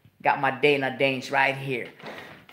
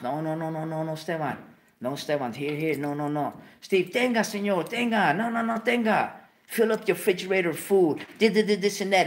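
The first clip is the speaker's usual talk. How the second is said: protesting dad; 4 semitones higher than usual. Retold or imitated. Dad refusing Steve's money.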